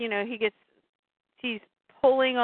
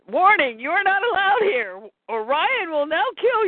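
computer warning voice; 7 semitones higher than usual. Acted.

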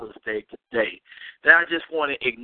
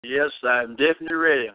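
talking around a mouthful of candy; chewing while talking; faster than usual. Real, not acted. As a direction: speak while munching candy. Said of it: "munching on some Skittles right now".

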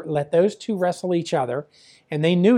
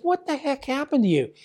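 retold alarmed astonishment; 8 semitones higher than usual. Father to son on seeing ring welts, retold astonishment. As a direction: imitate a dad taken aback.

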